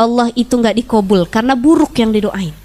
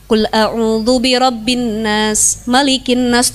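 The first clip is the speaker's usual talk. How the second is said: slow, lower Quran recitation; 3 semitones lower, slower than usual. Shown as a demonstration. Mother reciting An-Nas to sleeping child, slow chant. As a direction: recite it slowly like murojaah. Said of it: "memurojaah ayat Quran".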